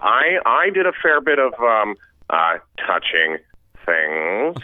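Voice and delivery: halting dad giving an embarrassing talk; Eugene Levy impression. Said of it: "you do another character from that film".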